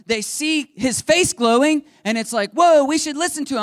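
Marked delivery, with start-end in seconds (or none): 2.5-3.6 awed whoa. Retold or imitated. People awed by glowing face.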